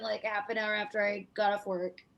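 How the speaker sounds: usual speaking voice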